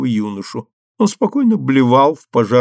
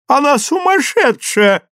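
much higher, startled cry; shocked exclamation; 14 semitones higher, 3 dB louder than usual. A narrator's reading. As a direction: gasp it out, scandalised. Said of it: "воскликнула дама в диадеме". (возмущённое восклицание)

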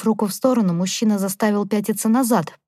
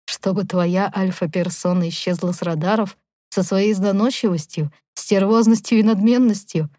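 falsely gentle into a shout. Acted. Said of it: "Обманчиво ласковый тон к концу фразы перешёл в крик".

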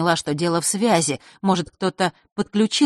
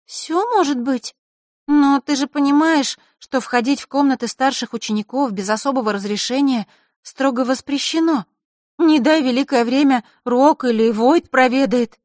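put-on higher, cautious girl's voice; 8 semitones higher, 4 dB louder than usual.

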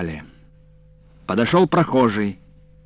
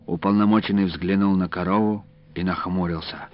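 usual speaking voice

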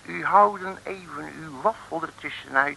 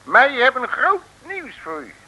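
hoger en luider, gebroken Nederlands als deftige mandarijn; nep Chinese mandarijn; 8 semitones higher, 5 dB louder than usual. Acted. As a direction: speel de grote mandarijn die plechtig opbelt. (nep-mandarijn die Makke plechtig belt)

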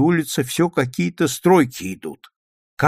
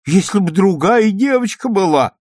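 upset grandmother; 9 semitones higher, 5 dB louder than usual. A narrator's reading.

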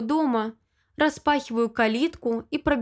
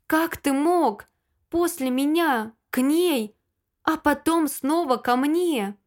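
tearful shout; 3 semitones higher than usual. Acted. To the cheating Lyosha, a higher tearful outcry. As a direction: hurl it at him through tears. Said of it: "Взрываюсь криком вперемешку с новым плачем".

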